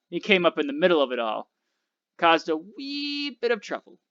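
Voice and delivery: southern accent, played down with a wry understatement. A narrator's reading. Southern man reports the trouble to the driver, in a southern accent. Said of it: "He had a distinctive southern accent".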